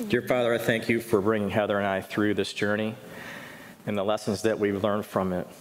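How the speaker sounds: low, hushed prayer voice; earnest prayer, softening toward the end. Real, not acted. Pastor praying aloud over Heather, hushed and earnest.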